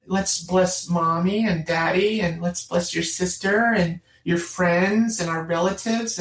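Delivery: slow, lightly voiced mother leading bedtime prayers; a hint of a patient mom, drawn out; mother guiding her child through prayers, slowly. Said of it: "And she says".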